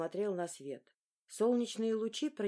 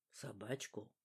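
1 absent-minded; 9 semitones lower, 12 dB quieter, slower than usual. A narrator's reading. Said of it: "рассеянно переспросил".

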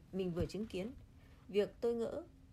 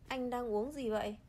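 caring. Acted. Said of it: "Ông hỏi với vẻ quan tâm".

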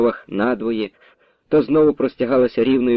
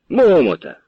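loud call out; shouted name; 5 semitones higher, 4 dB louder than usual. Acted. Pavlo shouting his choice to the crowd, loud. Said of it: "викрикує Павло".

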